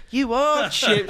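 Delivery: high-pitched mock insisting; retold insistence. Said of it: "the way he insisted".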